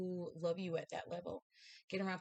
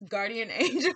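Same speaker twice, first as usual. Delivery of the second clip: laughing delight; 5 semitones higher, 11 dB louder than usual. Real, not acted. Laughs at the card drawn.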